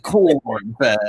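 big booming announcer call. Shown as a demonstration. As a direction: boom out the show name. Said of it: "Do the fucking announcer voice".

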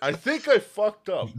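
slow, put-on ominous voice; scary character voice. Voice actor riffing on a startled phone caller, ominous voice. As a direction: draw it out in a hammed-up character voice.

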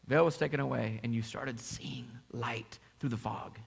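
hushed whisper, almost no voice. Shown as a demonstration. Pastor hushes to the congregation, whispering. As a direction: breathe it out like a secret. Repeats line as soft whisper.

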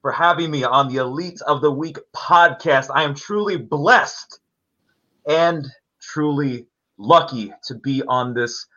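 lightly voiced circus ringmaster. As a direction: announce it like a big-top showman. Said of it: "ladies and gentlemen, boys and girls, children of all ages".

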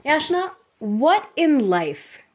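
slow, drawn-out would-be profound question; hammed-up philosophical pause; mock deep tone. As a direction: play at being a deep interviewer, very slow. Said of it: "I'm trying to sound all deep here".

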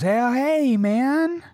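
high, drawn-out tipsy drawl; imitated drunk greeting. Swaying stranger greets the gamers, imitated drunk. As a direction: play a wasted guy saying hello. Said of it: "he's kinda swaying a little bit weird".

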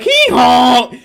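loud, high hee-haw; imitated donkey call; donkey bray. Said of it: "you just hear the donkey go".

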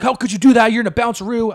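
loud, high, outraged scolding; Ace Burpee. Retold or imitated. Radio host scolding boy in bounceroo, mock outraged. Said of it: "Ace starts going off of me".

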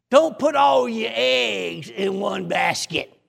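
slow, gentle motherly warning; cautious mama. Retold or imitated. Mother gently warning her son on the phone, slow caution. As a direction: caution him slowly like his mother. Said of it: "She said, Honey".

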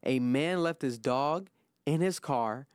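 slow, measured news read; deliberate headline delivery. Real, not acted. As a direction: read the story out slowly, phrase by phrase. Reads out news story.

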